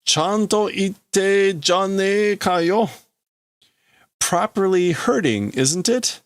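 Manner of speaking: drawn-out acted taunt; taunting character. Character remarking that it properly hurts, taunting.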